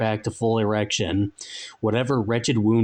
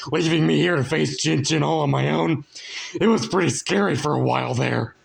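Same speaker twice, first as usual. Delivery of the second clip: excited greeting; 5 semitones higher than usual. A narrator's reading. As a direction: greet him like a long-lost pal. Frank greets Pink Guy.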